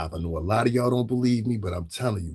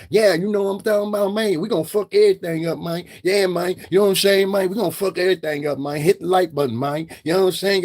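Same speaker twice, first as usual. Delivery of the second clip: mock hype rapper; 6 semitones higher, 3 dB louder than usual. Mimicking Brorilla for his viewers, hyped-up and loud. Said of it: "Like, I talk like this".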